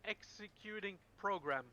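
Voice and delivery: slow, stiff robot voice; old speech synthesizer. Pretend. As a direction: announce yourself like a clunky bot. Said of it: "I am Blankbot".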